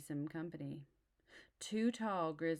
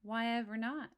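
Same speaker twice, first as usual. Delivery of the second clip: high, loud surprised question; 7 semitones higher, 5 dB louder than usual. Acted. Mama asks her cub, surprised and higher. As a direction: ask in disbelief, pitched up.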